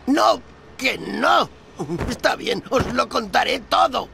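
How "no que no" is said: loud, drawn-out pleading no; desperate protest. Acted. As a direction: beg them to stop. Refusing more food. (protesta desesperada y lenta)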